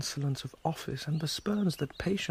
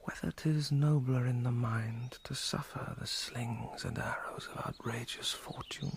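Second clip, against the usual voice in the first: whispering. Acted. Whispered soliloquy.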